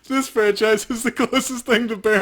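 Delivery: put-on high, far-off old granny reading; grandma voice. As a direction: read it like a little old grandma. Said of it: "Thanks, Grandma".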